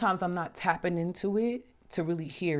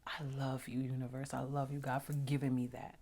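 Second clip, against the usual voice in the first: tender thanks; 7 dB quieter than usual. Retold or imitated. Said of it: "I was just like".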